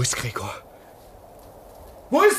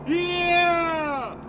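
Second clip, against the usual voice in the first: calling out; much slower than usual. Acted. Hailing the plane overhead.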